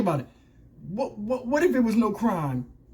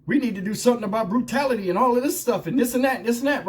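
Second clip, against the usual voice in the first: hammed-up higher, quick mock plea; mimicking a chief's hollow reform talk, fast and higher; mocking imitation; 4 semitones higher than usual. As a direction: rattle it off fast like a mock speech. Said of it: "Talking about".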